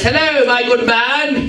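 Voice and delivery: lightly voiced plummy gent, slow; a hint of an old-fashioned gentleman greeting; posh gentleman voice. Man greeting the shop owner in a mildly posh voice. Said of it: "He spoke like that for some reason".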